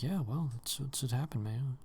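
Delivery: lightly mocked indifferent reader; dismissive imitation. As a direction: imitate someone casually brushing it off.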